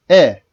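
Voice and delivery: teacher sounds out E for the class; clear short E. Shown as a demonstration. Teacher models the letter sound "E." for students. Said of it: "E diye okutur".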